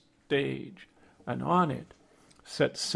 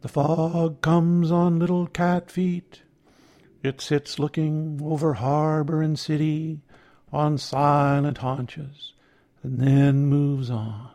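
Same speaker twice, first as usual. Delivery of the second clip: sing-song poet reading. Retold or imitated. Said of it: "read many others, including Fog".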